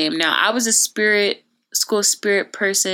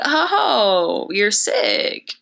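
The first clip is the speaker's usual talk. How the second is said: retold dad; 3 semitones higher, much slower than usual. Dad hearing his daughter is sick, lightly imitated. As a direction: imitate a parent reacting to news. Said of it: "And he was like".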